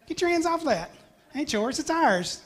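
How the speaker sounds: put-on high, bright East Tennessee accent, rising as it goes; East Tennessee drawl. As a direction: play a possessive East Tennessee kid claiming what's hers. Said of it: "But in East Tennessee".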